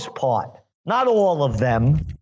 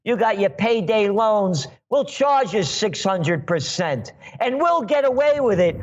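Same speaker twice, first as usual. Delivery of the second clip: higher, gloating sneer of a smug banker; mocking bankster voice; 4 semitones higher than usual. Radio host mocks the banksters who scorn little people, in a higher gloating voice. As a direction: lord it over the little people, pitch raised. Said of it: "We're the Goldman Sachs gang".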